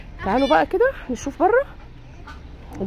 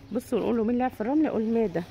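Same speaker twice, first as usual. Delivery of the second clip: quiet prompting aside; 7 dB quieter than usual. Real, not acted. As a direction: drop the voice and feed him his line. Prompting the child's answer aside. (همس سريع بيلقن الطفل الإجابة)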